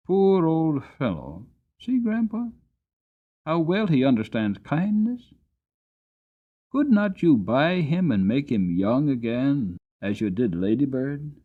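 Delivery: put-on a boy begging his grandpa to buy the horse; boy pleads with grandfather, high child's voice; pleading young boy.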